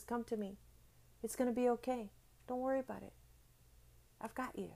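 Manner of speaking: softly voiced comforting father; soft and gentle, fading to almost nothing; soothing dad. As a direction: lightly play a dad calming his child. Dad comforting his hurting child.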